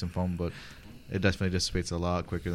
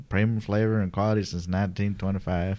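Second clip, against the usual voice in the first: put-on Texan label reading; Texan accent; 3 dB louder than usual. Reading a beer label to friends, in a Texan accent. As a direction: read it like a Texan pitchman. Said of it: "that's a pretty good Texan accent".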